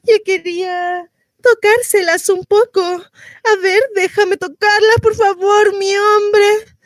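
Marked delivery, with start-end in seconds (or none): 2.8-6.8 higher-pitched coaxing plea; pleading. Acted. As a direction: beg your man to let you touch. Retells pleading with her man. (súplica insistente, voz más aguda)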